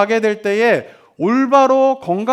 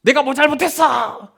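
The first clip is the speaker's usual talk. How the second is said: drawn-out mock protest; defiant child; 3 semitones higher, slower than usual. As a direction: imitate a child stubbornly holding out. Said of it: "이렇게 버티는 애들은". (버티며 대드는 아이 흉내)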